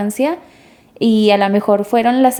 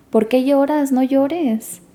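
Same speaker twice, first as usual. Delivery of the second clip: higher-pitched mild scolding of a mourner; reproachful relative; 3 semitones higher than usual. Acted. Relatives telling a mourner to stop crying, mild reproach. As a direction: voice a relative impatiently discouraging tears.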